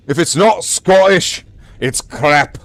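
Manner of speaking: put-on Scots brogue; Scottish accent. Streamer quoting a catchphrase about Scottishness, Scottish accent. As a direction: declare it in a mock Scottish accent. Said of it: "You could pass for Scottish with that".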